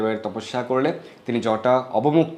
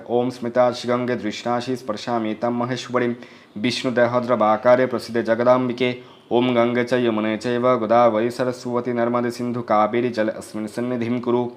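mantra recitation. Acted. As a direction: intone the mantra steadily, like a priest at the river. Recites touching-water mantra.

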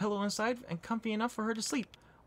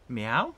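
mock meow; 5 semitones lower, 5 dB louder than usual. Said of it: "What was that meow about?".

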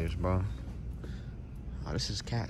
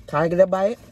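mimicking whiny girlfriend; 7 semitones higher, 6 dB louder than usual. Mimicking girlfriend begging a bite.

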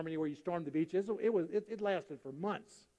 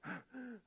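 acted winded sigh; out-of-breath panting; 6 semitones higher, 14 dB quieter than usual. Hospital patient resting in a doorway, winded panting. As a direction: puff as if catching your breath. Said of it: "trying to catch his breath".

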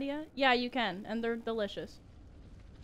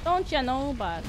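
put-on Canadian accent; 4 dB louder, slower than usual. Streamer hamming up Canadian talk to chat, mock Canadian accent. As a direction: play up the Canadian cliché. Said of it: "I'm Canadian".

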